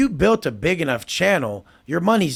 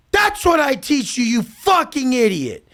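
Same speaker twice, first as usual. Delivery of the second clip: exasperated insult; 9 semitones higher, 4 dB louder than usual. Retold or imitated. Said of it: "And I'm like".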